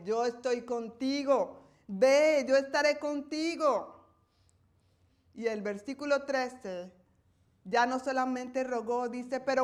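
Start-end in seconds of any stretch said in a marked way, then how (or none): 0.0-4.0 slow, steady, insistent reassurance; the Lord patiently repeating his promise; God patiently reassuring Moses. Acted. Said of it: "el Señor con paciencia a recordarle".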